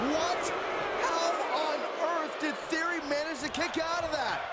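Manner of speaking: high, stunned disbelief; can't believe the kickout; surprised. Real, not acted.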